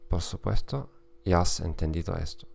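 Spanish spoken with a German accent; German-accented Spanish, careful and steady. Real, not acted. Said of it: "con acento alemán". (español con acento alemán)

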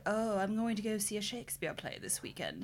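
bad posh English accent attempt; hammed-up Downton Abbey English accent; backwoods Downton Abbey accent. Friend mocking Shakespeare theatre-goers, backwoods Downton Abbey accent. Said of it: "backwoods Downton Abbey accent".

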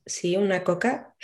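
slow patient repeat. Retold or imitated. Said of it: "Y yo".

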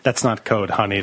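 low, patronizing correction; condescending. Real, not acted. Correcting a friend about his girlfriend's words, condescending. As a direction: talk down to him, voice dropped. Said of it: "in the most condescending way possible".

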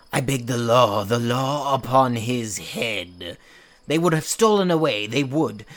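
loud, insistent plea for the law; furious demand. Acted. Father demands the law upon Lysander, furious loud plea. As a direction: pound it out in fury.

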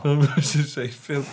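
slow mocking echo with a laugh; drawn-out teasing mimicry; mocking imitation. Mimics friend's remark back, laughing.

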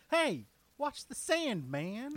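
loud, high, drawn-out protest; mock indignant dad. Dad scolding whoever kicked his kid's sandcastle, hammed-up loud protest. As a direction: call out like an offended dad. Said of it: "the kid's dad pops up and says".

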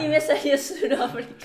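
laughing. Real, not acted. Laughing at her slip.

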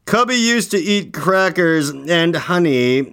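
put-on slow sing-song reading of a kids' rhyme; reading a poem. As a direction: read the verse slowly with a bounce. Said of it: "Can you read that?".

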